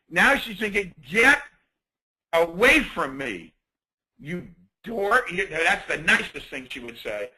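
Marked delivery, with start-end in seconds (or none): 1.1-5.3 sharp, louder brush-off; annoyed get-away. Acted. Woman at the gym telling the creep off, loud and annoyed. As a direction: push him off with disgust.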